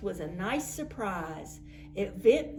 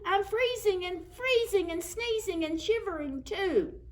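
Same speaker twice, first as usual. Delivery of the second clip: high, strained shivering snowman voice; 10 semitones higher than usual. A narrator's reading. The snowman tells the children he is freezing, high.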